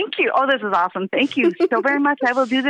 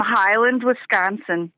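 slow, natural Wisconsin accent; unhurried Wisconsin accent; 3 semitones lower, much slower than usual. Real, not acted. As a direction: say the place name slowly in a real Wisconsin accent. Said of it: "the Wisconsin accent".

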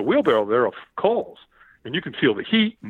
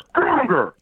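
higher mock shout; retold trainer's scream; 7 semitones higher, 4 dB louder than usual. Trainer pushing him for more, imitated scream. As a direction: demand more with an acted yell. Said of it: "He screams at me".

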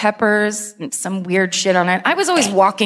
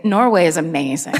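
coded mock praise; 4 semitones lower than usual. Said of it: "We'd just say".

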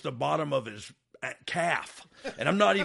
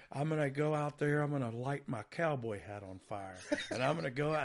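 Terry Funk impression; 2 semitones lower, 7 dB quieter than usual. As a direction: tell it quietly like old Terry Funk would. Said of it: "so I can hear you talk like that".

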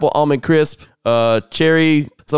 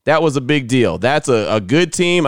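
usual speaking voice

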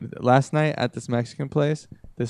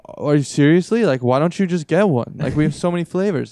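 exasperated waitress; 3 semitones higher, 5 dB louder than usual. Retold or imitated. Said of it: "and she was like".

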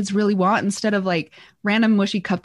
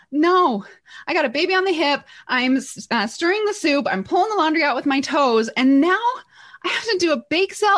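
frantic mom; 5 semitones higher than usual. Retold or imitated. Mom voicing her frantic past self.

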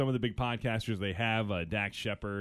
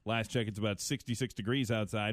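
radio weather read; 3 semitones lower than usual. Acted. Reads weather and news sign-off.

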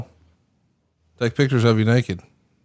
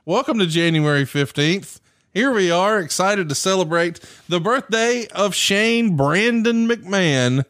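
higher, drawn-out host announcement; show announcer; 6 semitones higher, slower than usual. Real, not acted. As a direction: stretch out the celebratory introduction. Announces the episode's celebration.

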